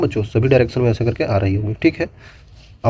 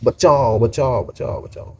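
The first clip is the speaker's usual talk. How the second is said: fading echo cry; slower than usual. Shown as a demonstration. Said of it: "फिल्मों में बोलते हैं".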